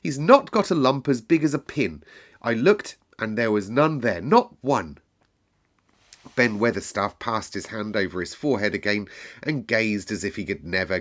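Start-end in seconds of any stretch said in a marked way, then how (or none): 0.0-5.0 put-on higher, louder girl insisting; indignant girl insisting. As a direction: defend him hotly. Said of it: "fierce indignation".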